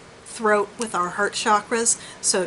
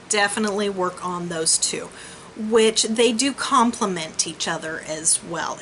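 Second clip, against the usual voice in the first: airy breathy mystical healer. Real, not acted. Gentle chakra advice to client.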